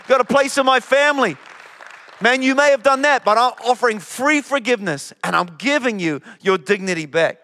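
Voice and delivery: impassioned Jesus, building in force; Jesus pleading with Peter. Acted. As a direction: call Peter home with building passion. Preacher voices Jesus restoring Peter.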